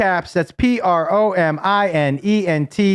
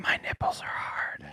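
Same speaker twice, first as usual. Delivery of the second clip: unvoiced whisper; 15 dB quieter than usual. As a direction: whisper it sensually. Whispered aside.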